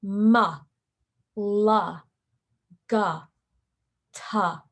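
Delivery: "Ma", "la", "ga", "ta" each with an added uh; wrong added schwa. Shown as a demonstration. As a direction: say each letter sound with an extra uh vowel. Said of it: "like this".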